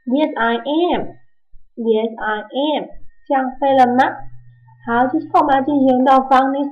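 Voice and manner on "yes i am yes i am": slow and clear; slow model answer. Shown as a demonstration. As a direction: answer for the class, unhurried. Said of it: "怎么问".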